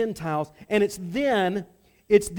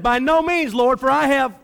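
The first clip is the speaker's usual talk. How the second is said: much higher and louder, insistent; emphatic protest; 5 semitones higher, 8 dB louder than usual. Shown as a demonstration. Preacher redoing Peter's refusal, loud and emphatic. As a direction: protest it like you mean it. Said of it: "Ah, yes. Very good".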